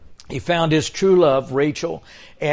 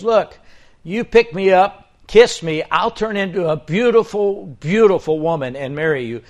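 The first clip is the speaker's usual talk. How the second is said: higher, louder salesman frog; pitching frog; 5 semitones higher, 6 dB louder than usual. Acted. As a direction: sell the deal hard. Frog makes its offer.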